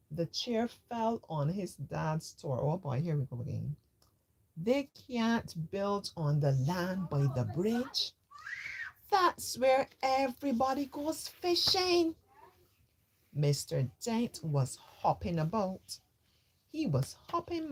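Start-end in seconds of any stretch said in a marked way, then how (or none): 4.5-12.1 put-on shocked boy.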